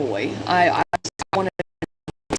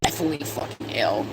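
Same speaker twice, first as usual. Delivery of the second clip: whispered emphasis; 4 semitones lower, 5 dB quieter than usual. Real, not acted. Mother describing awful pregnancy sickness, dropping to a whisper. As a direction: drop to a whisper on the last words.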